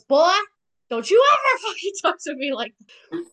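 hammed-up snap at a cheeky son, a laugh slipping in; angry dad. Angry father scolding his son for talking back, a mock-angry telling-off. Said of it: "And F P pissed".

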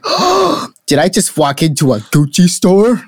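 high gasping mock shock at a fancy shop; mock gasp of surprise. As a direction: gasp and squeak it like you walked into Gucci. Mock surprise on entering store.

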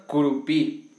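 Curupí with the accent on the final I; stress on final syllable. Real, not acted. Co-host introducing the next cryptid, Curupí stressed on final I. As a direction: land "Curupí" on its last vowel, pí. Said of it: "con acento en la I".

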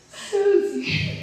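high call through a door; yelling a name. Retold or imitated. Calling his teammate through the hut door. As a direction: call out to wake her. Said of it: "I've yelled".

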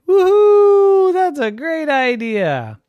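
loud, high whoop of delight; cheering. A narrator's reading. Friends cheering Ricky's cardboard plan, excited. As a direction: cheer like a gang of thrilled kids. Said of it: "Ronald, and Donald cheered".

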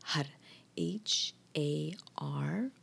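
har, then spelled H A R; spelling out har. Shown as a demonstration. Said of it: "The word is".

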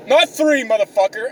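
high-pitched indignant correction; mock scolding. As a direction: playfully tell off a greedy taker. Scolding someone taking extra chocolate.

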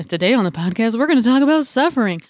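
radio host intro, pitch lifting at the end; put-on show-opener voice, rising on the last phrase; Ira Glass impression. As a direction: announce it like a public radio podcast host. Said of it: "my Ira Glass voice".

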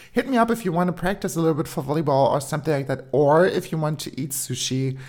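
quick, offhand and easy; nonchalant. Retold or imitated. Classmate casually offering to practise volleyball, nonchalant and quick. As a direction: toss it off like it's nothing. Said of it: "ganz, ähm, nonchalant".

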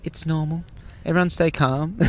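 imitated flight attendant reassuring passengers; mock calm. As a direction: play it down so nobody panics. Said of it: "don't wanna panic anyone".

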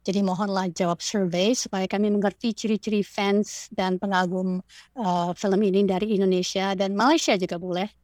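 careful Indonesian, delivered as an appeal; Indonesian read-out. Shown as a demonstration. Podcast guest reads the survey appeal to Indonesian fans in Indonesian. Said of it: "So here goes".

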